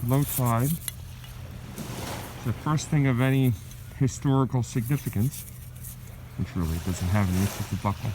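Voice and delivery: muffled through a mask; through a face mask. Real, not acted. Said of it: "I'm trying to talk through my mask".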